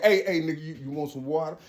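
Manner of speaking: high teasing voice; mock offer. Onlooker mock-offering water, high teasing. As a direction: tease him with a fake kindness.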